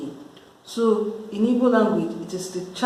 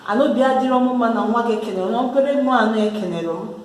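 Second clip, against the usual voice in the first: offended mother; 3 semitones higher, faster than usual. Acted. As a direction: play the offended neighbour mom scolding. Angry mom complains about child.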